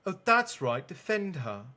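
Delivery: lightly voiced jab at her brother; sarcastic Ginny.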